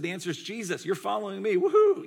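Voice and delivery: building to a high whoop on woohoo; hammed-up kid cheering the right answer; mock Sunday school cheer. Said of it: "Like the Sunday school".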